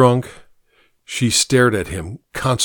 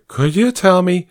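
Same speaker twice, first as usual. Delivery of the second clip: put-on drunk man; 7 semitones higher, 4 dB louder than usual. Drunk guest speaks.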